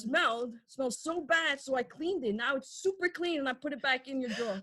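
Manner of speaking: a hint of the proud mom who cleaned the bong; imitating mom. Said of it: "you say it exactly how she would say it".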